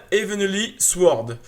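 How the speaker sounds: Heavenly Sword very slow, word by word; careful pronunciation. Real, not acted. Vlogger retrying a game title he doubts, careful slow pronunciation of Heavenly Sword. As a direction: sound out Heavenly Sword as an unfamiliar English title. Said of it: "Je sais pas si je vais bien le prononcer".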